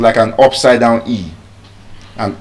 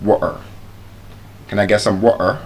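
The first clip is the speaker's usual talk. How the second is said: British; 2 semitones lower, 8 dB quieter, faster than usual. Retold or imitated. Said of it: "a typical British man would say".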